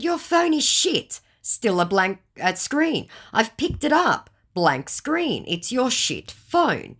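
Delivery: high, slow scoffing; teasing put-down; mock scolding. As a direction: scoff at his phone. Her taunting reply.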